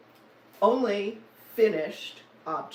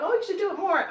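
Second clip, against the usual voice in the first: quoting viewers; 11 semitones higher, 5 dB louder, faster than usual. Retold or imitated. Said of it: "and people said".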